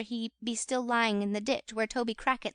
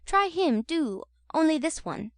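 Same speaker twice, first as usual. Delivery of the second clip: coaxing, higher Charlotte; 5 semitones higher than usual. A narrator's reading. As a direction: press the oyster on him sweetly. Charlotte coaxing Noah to eat.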